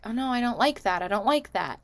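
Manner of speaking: lightly voiced tipsy woman; feigned drunk protest. Drunk-acting woman objecting to the guy, mildly tipsy. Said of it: "she's slurring her words".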